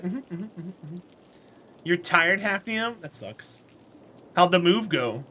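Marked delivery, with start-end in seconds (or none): 0.0-1.0 much softer, murmured mm-hmms; knowing mm-hmms. Pretend. Pretending to answer her friend, soft knowing hums. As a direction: hum it smugly under your breath. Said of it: "be like".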